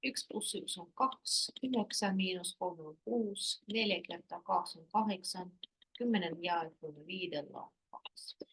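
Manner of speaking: "kaksi" said as "kaks", "kuusi" as "kuus"; colloquial pronunciation. Shown as a demonstration. Repeating all the colloquial ones for learners, colloquial pronunciation. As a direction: run through the sums with final i dropped in "kaksi". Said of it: "say again all the colloquial ones".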